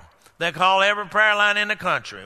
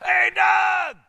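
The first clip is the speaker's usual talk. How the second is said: high shout across the room; much higher call to the back row; shout to Doug; 10 semitones higher than usual. Shown as a demonstration. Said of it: "so I'd have to".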